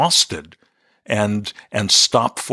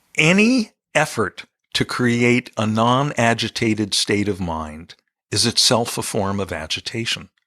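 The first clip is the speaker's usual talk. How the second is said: slow, deliberate, measured, carefully spaced words. Repeating a sentence that took years to get right, speaking slowly. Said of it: "I'm going to say this slowly".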